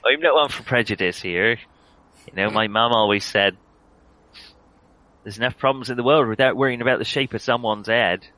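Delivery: attempted Cornish farmer voice; loosely held Cornish accent; Cornish old man. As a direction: play a homespun Cornish old-timer. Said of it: "only Cornish".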